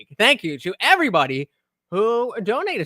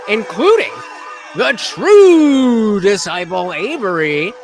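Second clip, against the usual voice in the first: slow, loud hype call; loud announcement; 7 dB louder than usual. Real, not acted. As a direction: announce them proudly. Shout-out to top donor.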